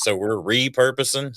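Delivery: "repurposing" with a punched REE; first-syllable stress. Shown as a demonstration. Southerner demonstrating his emphasis, REE stressed in "repurposing". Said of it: "So we put the emphasis there".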